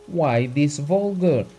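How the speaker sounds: a touch of tears, pleading; hurt and reproachful, near tears; tearful voice. Acted. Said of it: "Abogin said in tearful voice".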